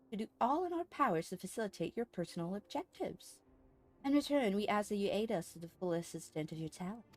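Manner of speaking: lightly voiced courteous order leader; formal, lilting dialogue read-aloud; formal game character. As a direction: deliver it as a stately quest-giver.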